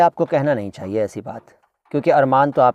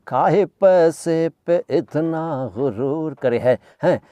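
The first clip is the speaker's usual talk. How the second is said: mock rustic scold; 2 semitones higher, slower than usual. Mock scolding of a rich man.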